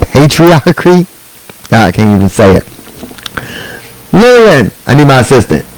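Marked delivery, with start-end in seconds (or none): 4.1-5.7 mock pompous request. Calling assistant for water.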